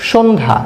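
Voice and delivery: সন্ধ্যা with the palatal স sound as people speak it; how we say it. Shown as a demonstration. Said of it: "আমরা বলি".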